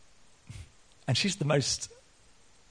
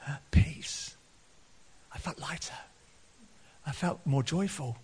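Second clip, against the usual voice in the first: hushed, halting retelling of someone moved; retold tearful testimony; 5 dB quieter than usual. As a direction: imitate her softly, close to tears. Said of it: "I don't know why I'm crying".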